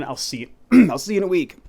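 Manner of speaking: clearing a choked-up throat. Real, not acted. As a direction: voice catching in throat. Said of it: "Excuse me, I'm choking here".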